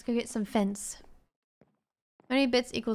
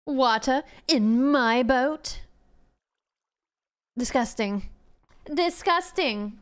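mock disgust; slower than usual. Diva disgust.

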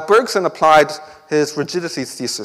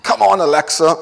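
robot voice; 5 semitones higher, 4 dB louder than usual. Retold or imitated. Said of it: "and then the robot says".

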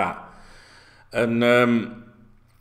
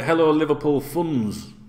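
slow, slightly raised mock African accent; imitated African accent; 4 semitones higher, 4 dB louder, slower than usual. Vlogger mimicking African lads in the Facebook group, imitated African accent. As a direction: lightly put on an African fan's accent. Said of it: "they do the talk with all this".

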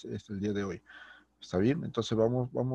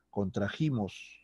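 slow model word; 4 dB quieter, slower than usual. Shown as a demonstration. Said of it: "sería contrajimos".

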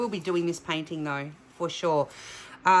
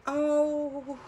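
delighted gasps; 8 semitones higher, much slower than usual. Real, not acted. Reacting to revealed painting.

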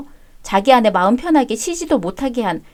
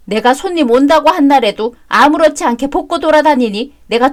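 a higher, louder begging voice; pleading mother-in-law; 3 semitones higher, 4 dB louder than usual. Acted. Mother-in-law begging her daughter-in-law to take her son back.

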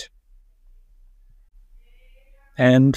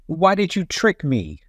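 high, scolding witch voice; angry witch; 8 semitones higher than usual. A narrator's reading. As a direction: scold like a furious old witch.

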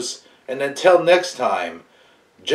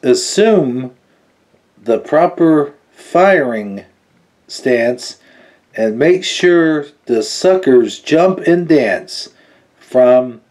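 slow, weighty poem recitation; dramatic card read. Acted. Reviewer reciting the villain's poem from the card, slow and dramatic. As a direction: savour each line of the bad poem.

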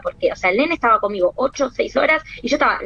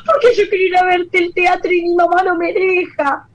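put-on high, whimpering child voice on the edge of crying; tearful little girl; 7 semitones higher than usual. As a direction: imitate a child about to cry. Girl complains she can't go.

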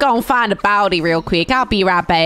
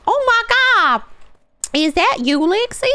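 high squealing surprise; a hint of a shocked Steph; mock surprised friend; 11 semitones higher than usual. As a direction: gasp it out like a stunned friend. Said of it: "she's gonna be like".

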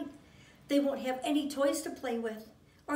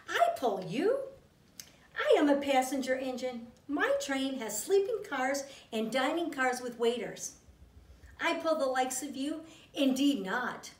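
snooty snort. Acted. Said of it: "the shiny new engine snorted".

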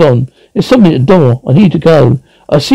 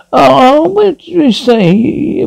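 shocked; 10 semitones higher, much slower than usual. Acted. Shocked at doctor's request.

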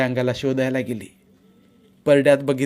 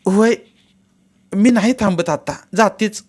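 put-on a lightly raised young woman's quick reply; brisk, obliging voice of Shevanta; Shevanta agreeing; 9 semitones higher, 6 dB louder than usual. Shevanta agrees to leave at once, lightly raised.

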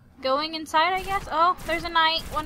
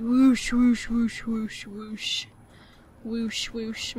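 imitated whoosh; 2 semitones lower, much slower than usual. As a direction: mimic portal travel sound effects. Imitating portal sound again.

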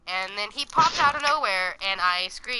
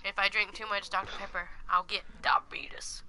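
whisper; 5 semitones lower, 7 dB quieter than usual. Acted. Whispered joke line.

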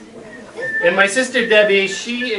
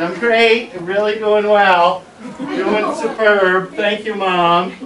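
higher, louder, stretched-out mock cheer; feigned cheerfulness; 4 semitones higher, 4 dB louder, slower than usual. Son hiding a lost frog from Mom, feigned cheerfulness. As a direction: overdo how fine everything is. Acting cheerful to hide panic.

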